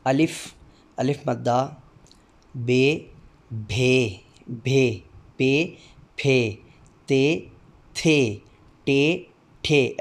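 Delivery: each Urdu letter name sounded out slowly and distinctly. Shown as a demonstration. Teacher drilling the Urdu alphabet for demo candidates, slow and distinct. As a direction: recite the alphabet, one clear sound at a time. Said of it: "हर हरफ की आवाज़ अदा करते हुए".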